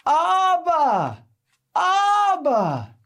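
high, loud desperate call; child crying out. Retold or imitated. Little boy calling his father after tumbling down the aisle, loud high cry. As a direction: shout for your father after a fall. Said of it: "the little boy cries out".

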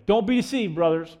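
urgent plain-spoken version of the verse; punchy paraphrase. Real, not acted. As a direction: toss it out as a brisk everyday warning. Punchy paraphrase of verse just read.

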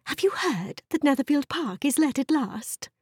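lightly voiced gossiping wife; eager wife. Wife bringing her husband news of a tenant, eager.

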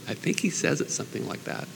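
breathy whispered aside under the breath. Real, not acted. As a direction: drop to a voiceless aside, half to yourself. Muttered aside.

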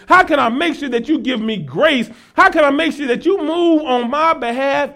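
rhythmic run of pressing sermon questions; fervent preaching. Real, not acted. Preacher asking God how to receive his best, fervent preaching. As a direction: plead each question with rising force.

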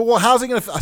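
high, indignant objection; protesting on someone's behalf, high voice; retold yelling. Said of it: "so I started yelling".

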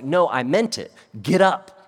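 insist, then punch out the order; insistent command. Acted. Quoting the Spirit insisting to Peter.

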